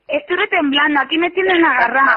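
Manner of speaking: shaky relieved laughter; relieved laughing. Real, not acted. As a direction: laugh off the scare. Relieved after prank reveal.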